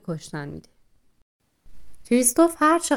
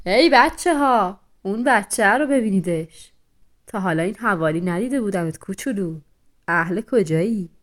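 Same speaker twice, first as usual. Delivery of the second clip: loud call; 4 dB louder than usual. Acted. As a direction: call the pack over, loud. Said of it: "با صدای بلند گفت".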